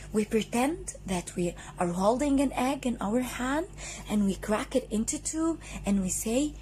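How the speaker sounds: put-on bright, sing-song teacher for kids; kids show host. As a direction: talk to a class of little children. Phonics teacher for children.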